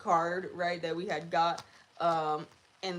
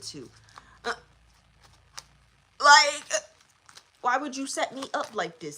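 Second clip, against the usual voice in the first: annoyed demon; 3 semitones higher than usual. Retold or imitated. Demon scolding the people who summoned it, a touch annoyed. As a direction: play a spirit angry at being set up. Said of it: "They're pissed because they're like".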